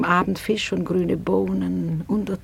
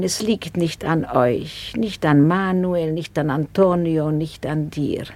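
musing; 6 semitones lower than usual. Acted. Lady muses sadly, low.

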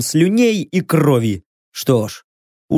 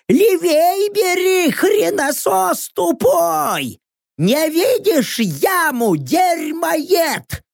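much higher, slow, bellowing insults; yelling; 9 semitones higher, much slower than usual. Acted. Rocks yells abuse at the driver, furious bellow. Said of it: "в голос заорал".

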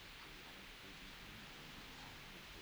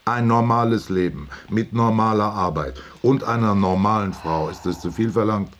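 agitated protest; 3 semitones higher than usual. Acted. Husband protests to wife that he is in control, agitated. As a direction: insist on self-control while getting heated. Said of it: "Reg dich nicht auf".

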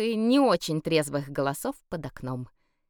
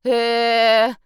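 puzzled drawn-out "э"; 5 semitones higher, 8 dB louder than usual. A narrator's reading. Elf looks round confused.

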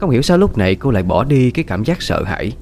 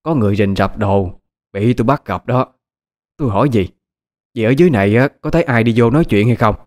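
grinding resentful voice. Acted. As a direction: bite out the accusation through your teeth. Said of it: "đáp lại với giọng đầy nghiến". (giọng đầy nghiến)

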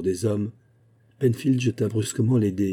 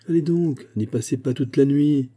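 higher, louder, urging him to throw; impatient shout; 5 semitones higher, 4 dB louder than usual. Acted. Penfield presses his partner to throw the dice, impatient shout. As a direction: hurry him up, snapping with nerves. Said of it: "cria Penfield".

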